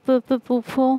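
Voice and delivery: broken, stammered word before bursting into tears; sobbing stammer. A narrator's reading. Girl calling her aunt, stammering as she starts to sob. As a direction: stutter the word out, close to breaking down. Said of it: "کہتے ساتھ ہی پھر پھوٹ پھوٹ کر رو دی".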